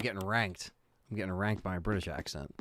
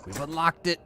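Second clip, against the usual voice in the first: excited; 7 semitones higher than usual. Real, not acted. Unlocking something in the game.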